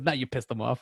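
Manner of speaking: a hint of the talking butt, said softly. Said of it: "he does".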